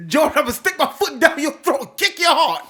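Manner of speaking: high, loud comic threat; mock shouted threat. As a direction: yell a hammed-up threat, close to laughing. Acted threat from a show, laughing.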